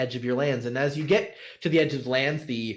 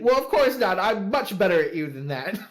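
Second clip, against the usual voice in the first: put-on high girlish retort; 8 semitones higher, 5 dB louder than usual. GM voices girl's playful retort.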